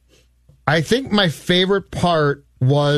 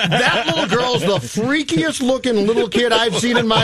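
talking through laughter, pitched higher; laughing; 5 semitones higher than usual. Real, not acted. Laughing about the creepy kid.

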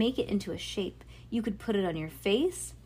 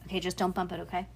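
plain reading voice

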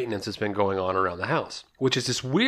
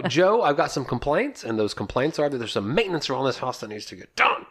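raised-pitch, insistent imitation of a wife; mock complaining wife; 4 semitones higher than usual. Husband playing wife with maintenance complaints, mock nagging. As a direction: mimic a wife laying down complaints. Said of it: "it's more like the first one".

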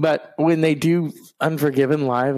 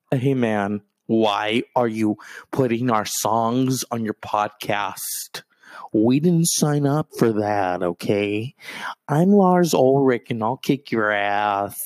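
Lars impression; 4 semitones lower, slower than usual. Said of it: "can you imagine Lars?".

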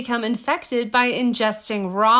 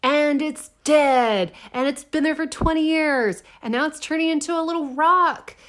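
incredulous, pitch climbing on each phrase; appalled disbelief; 5 semitones higher than usual. Real, not acted. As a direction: list each horror as if it gets worse. Recaps the horror of brain worm.

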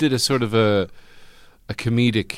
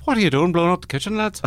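fast, higher mock scolding mother; mocking Irish mother; 7 semitones higher, faster than usual. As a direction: rattle it off like a scolding mam. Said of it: "the mother comes in and says".

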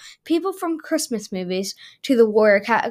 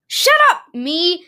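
high shout at yourself; arguing with myself; 7 semitones higher, 5 dB louder than usual. Acted. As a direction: snap back at your own voice. Arguing with himself.

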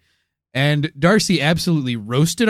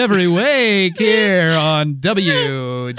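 mild radio shock jock, slow; 3 semitones higher, 3 dB louder than usual. Pretend. Radio host boasting to listeners, mild shock jock voice. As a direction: play a hammy radio host. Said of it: "a shock jock voice".

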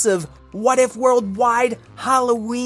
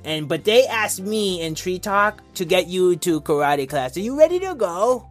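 dog with a too-long tongue; Fred the dog voice. Pretend. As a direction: talk like your tongue sticks out. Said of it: "why my voice sounds like this".

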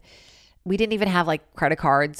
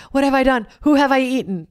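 higher, louder mock dog remorse; mock remorseful pit bull; guilty dog voice; 7 semitones higher, 5 dB louder than usual. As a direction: voice the sorry dog, hammed-up. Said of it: "and it was like".

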